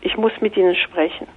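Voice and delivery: soft, hushed calming words; calming, soothing. Retold or imitated. Calming a panicked banker on the train, softly. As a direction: soothe a panicked stranger gently. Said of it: "ich versuchte ganz ruhig zu bleiben".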